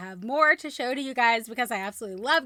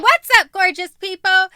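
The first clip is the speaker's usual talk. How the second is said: loud, high excited host greeting; hyped greeting; 8 semitones higher, 16 dB louder than usual. Shown as a demonstration. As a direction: bounce into the greeting. Retaken video intro.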